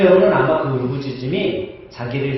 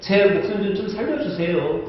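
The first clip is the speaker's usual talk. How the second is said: mock bargaining prayer; 5 semitones higher than usual. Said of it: "나는 아마 그렇게 기도했을 거야".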